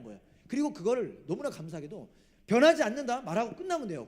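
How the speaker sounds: high-pitched, emphatic preaching with loud surges; forceful preaching. Real, not acted. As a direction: drive the promise home from the pulpit.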